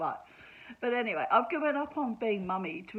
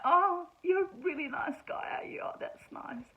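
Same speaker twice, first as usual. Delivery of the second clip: mock sweet whisper; 10 semitones higher, 5 dB louder than usual. Mocking a bloke's self-praise.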